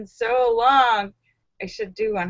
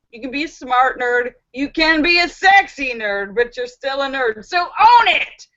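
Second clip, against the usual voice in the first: rallying cheer. Real, not acted. Rallying speech to fellow nerds.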